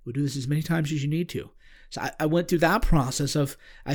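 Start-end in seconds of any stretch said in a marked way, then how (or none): 0.0-1.5 softer still, a distant echoing calm. Retold or imitated. The voice repeating its promise to him, softer and far off. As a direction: repeat it like a far-off gentle echo. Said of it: "same tone, very calm".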